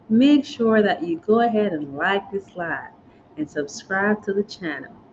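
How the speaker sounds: put-on slipping into a Southern American accent. Asking viewers to like the live stream and subscribe: southern accent. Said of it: "Why do I have a Southern accent now?".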